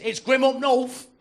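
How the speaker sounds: loud, high, slow cockney jeer; mock a cockney's taunt, drawn out; cockney accent. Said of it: "some cockney you can see".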